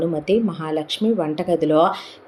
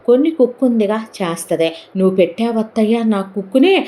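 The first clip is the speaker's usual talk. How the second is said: put-on chattering child; 5 semitones higher, 3 dB louder than usual.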